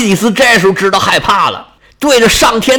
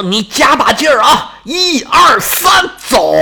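much higher, stretched-out one-two-three count; heave-ho shout; 7 semitones higher than usual. Acted. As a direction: haul him out with a slow, drawn count then a yell. Two gods hauling Achilles out.

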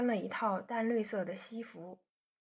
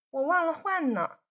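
sheepish laugh; 7 semitones higher, 5 dB louder than usual. A narrator's reading. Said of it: "笑道".

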